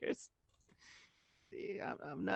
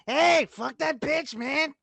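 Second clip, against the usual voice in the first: indignant supportive friend; 8 semitones higher than usual. Acted. Friend backing a guy after his breakup, high and indignant. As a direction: play the buddy rallying to your side.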